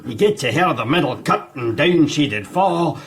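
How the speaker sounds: poem recital. Acted. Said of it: "recite a poem".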